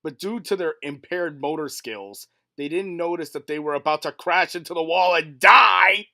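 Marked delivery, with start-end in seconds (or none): 2.6-6.1 dramatic shout. Acted.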